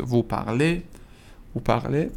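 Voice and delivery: "parlez" ending in an ay sound, z silent. Shown as a demonstration. Teacher repeats the vous form, "parlez" ending in é. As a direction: finish "parlez" on é, par-LAY. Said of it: "تلفظش ا هست".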